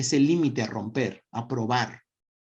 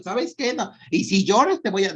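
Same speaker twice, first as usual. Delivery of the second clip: threatening mom; 5 semitones higher than usual. Retold or imitated. Mother threatening a crying child: mild mock threat. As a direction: snap it like a fed-up mom. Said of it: "las historias de las mamás de".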